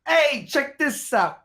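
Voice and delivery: slow, high put-on Jewish accent; drawn out in a mock Jewish accent. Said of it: "That's my Jewish accent".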